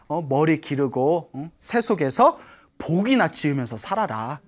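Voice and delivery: a firm brother telling him to leave; stern elder monk brother. Acted. Elder brother voiced in story.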